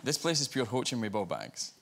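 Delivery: broad Scottish accent; broad Scottish phrase. Shown as a demonstration. Scotsman repeating his test phrase for the guest, broad Scottish. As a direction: repeat it in thick everyday Scots. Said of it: "I tried a Scottish phrase".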